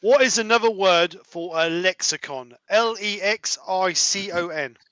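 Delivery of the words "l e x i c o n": letters spelled out slowly; slow spelling. Shown as a demonstration. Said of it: "spelling out".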